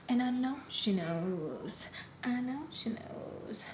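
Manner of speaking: slow, stretched-out last word; slow, conspiratorial emphasis; knowing, drawn-out aside. Real, not acted. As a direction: drag it out meaningfully. Dramatic repeated aside to viewers.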